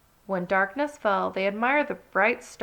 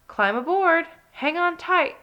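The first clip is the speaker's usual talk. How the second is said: louder, higher excited shout; 9 semitones higher, 6 dB louder than usual. Acted. Nicky shouting to friends on the sled, loud and high. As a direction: yell it as the sled takes off. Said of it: "shouted Nicky".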